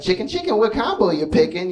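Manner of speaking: high singsong chicken chicken; cheery drive-thru worker. Retold or imitated. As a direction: chirp it like a cute fast-food greeting. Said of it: "they be like".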